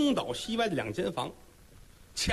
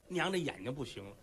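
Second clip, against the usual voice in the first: ordinary delivery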